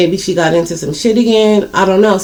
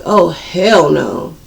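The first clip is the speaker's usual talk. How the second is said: slow hell no; 3 semitones lower, much slower than usual. Retold or imitated. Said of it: "I'm like".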